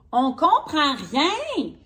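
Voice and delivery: a slow, hinted Drago voice; Drago complaining. Acted. Drago tells his friends he can't understand it, slow and puzzled. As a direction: lightly voice Drago, drawn out. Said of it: "dit Drago".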